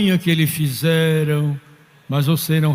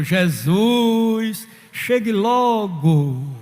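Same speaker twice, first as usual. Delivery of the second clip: slow, higher-pitched imitated cry; retold cry; 4 semitones higher, much slower than usual. Margarida calling Jesus to come quickly, retold cry. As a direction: call out with long drawn vowels, not truly shouting. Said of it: "ela se encheu e gritou".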